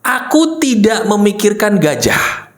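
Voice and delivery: slow, measured recital; deliberate follow-along phrase; model to repeat. Shown as a demonstration. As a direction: say it slowly for others to copy. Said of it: "Ikuti begini".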